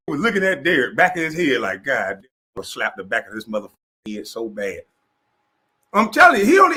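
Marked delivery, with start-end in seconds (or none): 1.8-4.8 muttered threat. Retold or imitated. Voicing Matt Barnes' thoughts.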